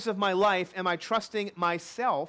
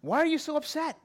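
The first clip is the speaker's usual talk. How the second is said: higher-pitched wife gently questioning; lightly voiced concerned wife; 5 semitones higher than usual. Wife asks sulking husband why he is upset, lightly acted concern. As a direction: lightly act a wife asking what's wrong. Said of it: "she asks him a question".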